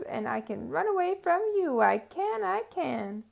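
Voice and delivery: high, loud gloating chant; gleeful boast. Acted. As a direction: rub it in as you run. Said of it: "laughed harder than ever".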